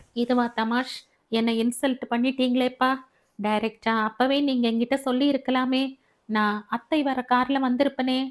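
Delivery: a touch of indignant protest, slightly quick; angry daughter. Acted. Daughter scolds her father for insulting her, mildly angry. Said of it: "ஏம்மா கோவமா பேசுற".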